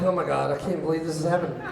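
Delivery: low, fast mortified aside; mortified disbelief. Retold or imitated. Teacher sweating over his derailed class, mortified disbelief.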